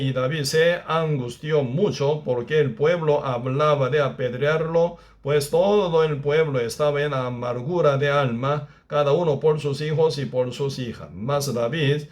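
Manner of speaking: steady, solemn verse reading; preacher reading verse six to the congregation, solemn; scripture reading. Acted. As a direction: read the verse with weight. Reads verse six aloud.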